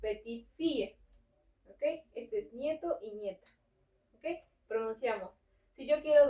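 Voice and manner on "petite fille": "petite fille" with an audible T closing "petite"; sounded final T. Shown as a demonstration. Teacher contrasts granddaughter with grandson, sounding the T in "petite fille". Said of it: "Aquí sí vamos a pronunciar la T".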